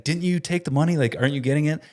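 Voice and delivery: mildly urgent retold questioning; worried wife imitation. Wife voiced pressing panicked husband.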